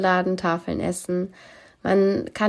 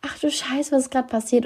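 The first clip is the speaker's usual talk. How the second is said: startled; 5 semitones higher than usual. Retold or imitated. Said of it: "hätte mich das total erschrocken".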